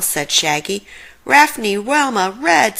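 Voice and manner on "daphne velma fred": higher dog voice with R sounds; happy Scooby greeting. Acted. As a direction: call the names like Scooby-Doo. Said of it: "said Scooby".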